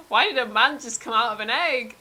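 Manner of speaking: high, loud, rushed panicked questions; a freaked-out kid blurting at the egg-man; startled Terry. Acted. Scared boy meets egg-man.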